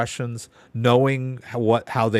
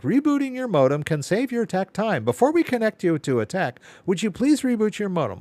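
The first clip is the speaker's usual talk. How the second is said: mock automated bot voice, pitched up; imitating the phone bot; 8 semitones higher than usual. Caller mocks the ISP phone bot, in a lightly pitched-up robot voice. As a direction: parrot the phone bot's prompt. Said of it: "I got their bot on the phone".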